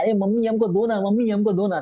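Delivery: a child pretending to cry for mom, pitched high; whiny child crying to mom. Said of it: "चलो रोना है". (छोटा बच्चा mummy से रोते हुए, ऊँची आवाज़ में दूध माँगता है)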